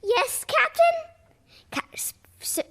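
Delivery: high frightened reply fading to a stammered whisper; terrified sailor stammering; voice shaking. Acted. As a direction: quake before the captain. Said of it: "Scurvy's voice shook".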